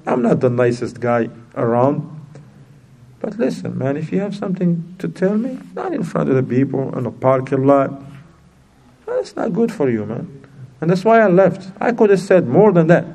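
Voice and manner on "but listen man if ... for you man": soft-spoken rebuke. Retold or imitated. Calm private rebuke to brother.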